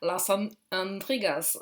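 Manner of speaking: slow, hammed-up Spanish accent on Las An-, Intrigas; mock Spanish accent. Shown as a demonstration. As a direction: read the card title in a joking Spanish accent. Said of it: "j'ai un accent espagnol absolument fabuleux". (faux accent espagnol exagéré)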